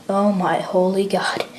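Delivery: breathless whispered dread; horrified whisper. Acted. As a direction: barely breathe the words out in shock. More soldiers vanish.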